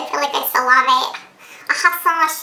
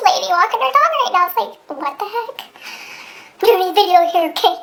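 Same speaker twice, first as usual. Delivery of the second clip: mock annoyed; 3 semitones higher, 4 dB louder than usual. Real, not acted. Annoyed at passerby.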